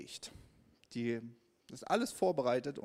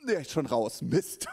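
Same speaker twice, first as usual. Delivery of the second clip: laughing dismay; 6 dB louder than usual. Retold or imitated. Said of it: "und ich so".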